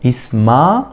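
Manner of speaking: إسما cut off right at the vowel; stop at the vowel. Shown as a demonstration. Teacher to students, stopping at the tréma in إسما. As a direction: break off after إسما. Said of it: "وقفت عند الصوت أهو".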